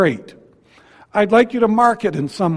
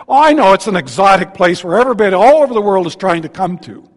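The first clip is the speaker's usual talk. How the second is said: sarcastic; 4 dB louder, faster than usual. Real, not acted. Sarcasm about small town Pekin.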